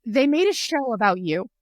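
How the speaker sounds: punchy, emphatic quote of a friend's news; breaking the news. Retold or imitated. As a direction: relay big news to a friend.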